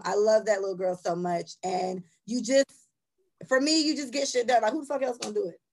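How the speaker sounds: ordinary talk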